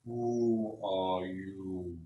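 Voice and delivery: very slow, drawn-out, otherworldly tree voice; a wary tree stirring awake; ancient tree spirit. Acted. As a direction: let each word creak out like old wood.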